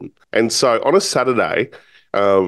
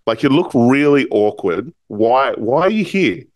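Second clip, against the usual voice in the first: higher-pitched, mildly puzzled retold questioning; curious questioning; 4 semitones higher than usual. Restaurant owner asking the awkward young visitor, curious. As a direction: imitate someone probing, genuinely curious. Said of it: "like, really curious".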